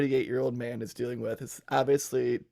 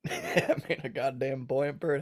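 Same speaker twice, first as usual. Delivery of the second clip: laughing. Shown as a demonstration. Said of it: "Say that real fast".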